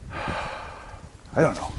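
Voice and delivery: unvoiced, very slow whisper; a near-silent, slow whisper. Real, not acted. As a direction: whisper it to yourself, unsure. Pondering the trail.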